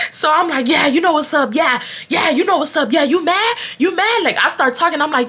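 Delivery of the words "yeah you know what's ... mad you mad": taunting. Retold or imitated. Taunting classmate in retold story.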